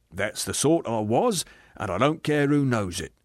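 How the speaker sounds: self-righteous working man, insistent; blustering ghost. Acted. Aggrieved ghost defending the life he led, blustering. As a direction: push each claim like a stubborn grumbler.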